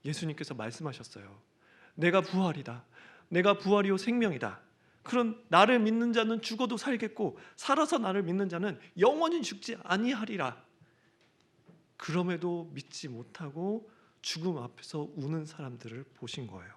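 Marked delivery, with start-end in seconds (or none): 1.9-10.7 a ringing, louder proclamation of Jesus; proclaiming loudly. Acted. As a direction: declare it with full authority. Jesus' words quoted in sermon.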